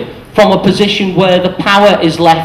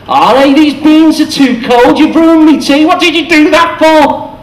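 hammed-up grumbling moan; moaning complaint; 10 semitones higher than usual. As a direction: grumble at the one who made your tea. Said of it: "even moans about what they do".

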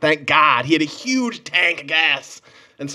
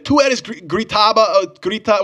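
mimicked accusing man; 7 semitones higher, slower than usual. Imitating man accusing yelling.

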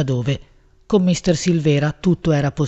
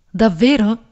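high, lilting warble of a question; trilling; 5 semitones higher, slower than usual. A narrator's reading. Woman answers Raimondo's gossip in her ear, trilling. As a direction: warble it like a coy songbird. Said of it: "gorgheggiavo io".

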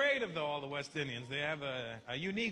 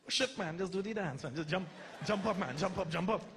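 put-on Trinidadian accent. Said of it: "that sing-songy accent".

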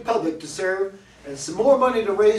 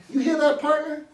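alert call; 8 semitones higher than usual. Acted. Alerts partner to a noise.

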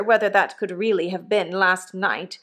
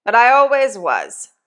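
a lightly voiced rough old convict, louder; hint of a coarse old convict talking to his boy; 3 semitones higher, 7 dB louder than usual. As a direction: give the old convict a bluff, hearty push. Convict Magwitch voiced in story.

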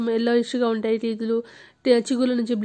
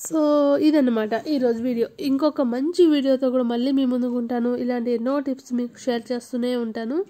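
toothbrush in mouth; brushing teeth while talking. Real, not acted. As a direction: mouth full of toothpaste foam. Seen 3: Toothbrush in her mouth, brushing throughout the labelled words.

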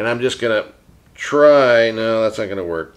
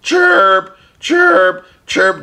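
parakeet chatter; 6 semitones higher, 4 dB louder, much slower than usual. Pretend. Puppet bird says goodbye.

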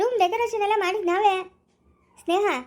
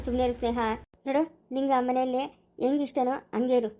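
soothing; 4 semitones lower than usual. Acted. Husband soothes his crying wife.

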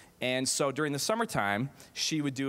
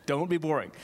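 put-on English accent; 3 semitones higher than usual. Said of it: "that's my English accent from Linda".

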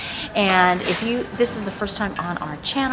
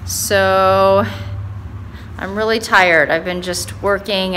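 echoing in empty room; 6 dB louder than usual. Real, not acted. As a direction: voice echoing off bare walls. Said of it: "It echoes in here".

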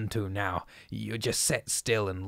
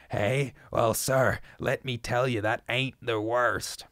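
shrill shouting. Acted. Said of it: "Zadok was really screaming now".

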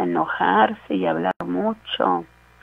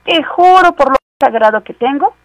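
higher, overdone solemn swear; mock oath; 7 semitones higher, 4 dB louder than usual. Pastor imitates someone swearing a false promise, mock oath. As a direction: ham up an empty promise. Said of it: "Se atreven a decir".

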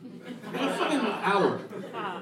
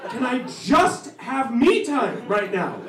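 exasperated plea; 4 semitones higher than usual. Acted. Acted pleading for time alone.

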